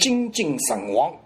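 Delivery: 把"神"念成上海话的神; 慢慢示范"精尽神亡"里的"神"; 神字发音. Shown as a demonstration. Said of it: "一律发神". (慢速示范"神"的读音)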